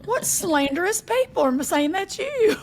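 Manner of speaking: high, loud shocked gasp of outrage; scandalized mom. Retold or imitated. Daughter imagining her mother's scandalized reaction, high and shocked. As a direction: gasp and clutch your pearls, drawn out slowly. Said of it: "She'd been like".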